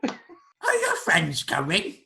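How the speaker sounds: high, loud, slow creature voice; creature host. Acted. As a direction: ask it slowly as the creature host.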